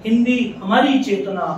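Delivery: measured, ringing poetry recital; poem recitation. Acted. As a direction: declaim each line in measured phrases, pausing between them.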